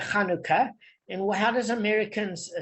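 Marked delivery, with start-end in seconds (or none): 0.0-0.7 Chanukah with a guttural Ch; South African pronunciation. Shown as a demonstration. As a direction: say Chanukah with a throaty kh at the start. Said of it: "We say in South Africa".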